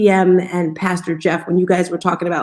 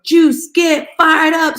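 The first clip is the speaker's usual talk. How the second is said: retold cheer; 8 semitones higher, 4 dB louder, much slower than usual. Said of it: "I would do this cheer".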